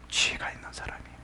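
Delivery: hushed and barely voiced; whispered answer. Real, not acted. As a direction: drop suddenly to a whisper. Preacher answers own question.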